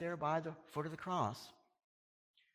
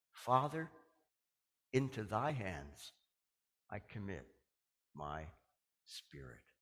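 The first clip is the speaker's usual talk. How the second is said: slow, fading far lower and softer; dying prayer; 6 semitones lower, 5 dB quieter than usual. Retold or imitated. Jesus to his father, slow dying whisper-soft prayer. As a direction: breathe it out to nothing.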